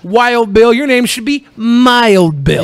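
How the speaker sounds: lightly hammed-up wrestler boast; mock wrestling promo. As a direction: talk trash like a ring promo. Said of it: "you just cut a promo".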